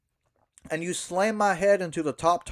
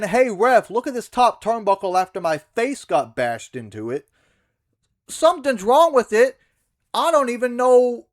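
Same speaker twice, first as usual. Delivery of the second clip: higher and louder, hammed-up panicky wrestler; mocking the ref call; 4 semitones higher, 7 dB louder than usual. Wrestler mocks the finish he was given, in a hammed-up panicky voice. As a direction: overplay a distracted heel crying to the ref. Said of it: "That's more reasonable than".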